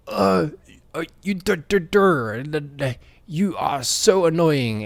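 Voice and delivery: high-pitched hammed-up French accent; French detective accent. French detective griping at somebody who annoys him, mock French accent. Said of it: "he's French, and he's talking to somebody".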